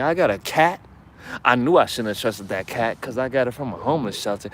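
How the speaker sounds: hammed-up rant of a cheated-on man; mocking, escalating tirade of grievance; mock bitter man. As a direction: imitate a jilted man's complaints, piling up absurdly. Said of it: "you're speaking from your nose".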